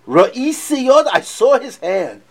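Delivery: high, loud and slow reveal; awed exclamation. Acted. Teacher acting the bride at the window, slow and awed. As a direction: savour the moment of seeing.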